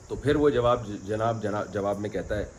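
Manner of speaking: ordinary delivery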